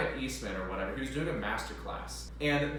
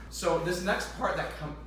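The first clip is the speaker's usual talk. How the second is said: voice crack; 4 semitones higher than usual. Real, not acted. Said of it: "voice crack, excuse me".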